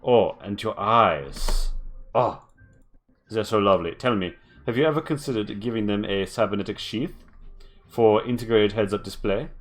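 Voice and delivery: gushing sales pitch, lightly put on; infomercial voice. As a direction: sell the upgrade like a TV ad host. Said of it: "She's like an infomercial".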